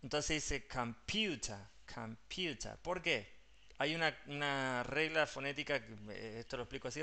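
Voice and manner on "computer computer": "computer" with the PU syllable stressed; prominent middle syllable. Shown as a demonstration. Teacher explains tonic syllable, "computer" stressed on PU. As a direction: slowly stress the long U in "computer". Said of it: "la sílaba tónica o el sonido prominente".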